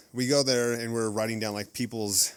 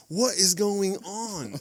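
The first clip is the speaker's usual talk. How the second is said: puzzled manager; 10 semitones higher, much slower than usual. Retold or imitated. Manager voiced in story.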